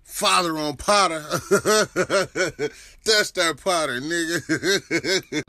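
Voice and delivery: loud, laughing boast; laughing hype. Real, not acted. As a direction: shout it out through laughter. Laughing hype about Potter.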